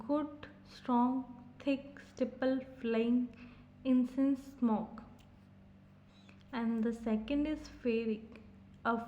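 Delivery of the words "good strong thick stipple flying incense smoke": "Good, strong, thick" each stressed alike, set apart by pauses; separate, even beats on "Good, strong, thick, stipple"; equal strong stresses. Shown as a demonstration. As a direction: give "Good" and "strong" equal weight, word by word. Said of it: "approximately equal strong stress".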